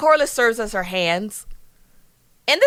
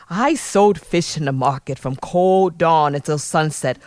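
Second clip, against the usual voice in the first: low, brooding monologue in a put-on British accent; 6 semitones lower than usual. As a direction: deliver a dramatic reckoning in an affected British accent, pitched down. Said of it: "Let me speak in an accent".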